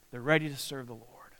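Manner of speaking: whispered affirmation. Real, not acted. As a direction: let it fall to a whisper. Quiet affirmation after yes yes.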